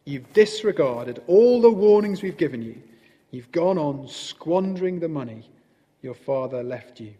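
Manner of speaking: stern telling-off, loud at the start then easing; a severe badger listing faults. A narrator's reading. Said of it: "the badger explained severely".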